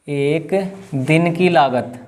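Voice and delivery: एक दिन की लागत at half speed; slow dictation. Real, not acted. Teacher repeats cost line for students writing, slow dictation. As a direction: draw out एक दिन की लागत, pausing after एक.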